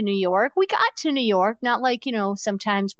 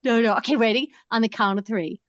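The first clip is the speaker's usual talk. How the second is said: giggly late night call; slower than usual. Pretend. Count to three hang-up.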